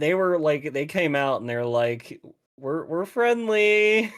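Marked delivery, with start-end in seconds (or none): 2.6-4.1 slow, high, breathy-free cheesy line read; hammed-up porn actor delivery; mock porn-actor voice, drawn out; porn acting. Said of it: "very much porn acting".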